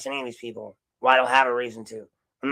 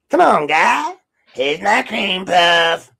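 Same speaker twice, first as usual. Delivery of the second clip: much higher, louder, slow hammed-up line; mock yell; 7 semitones higher, 8 dB louder, much slower than usual. Repeating the sheriff's cream puff line as a high, loud, slow mock shout.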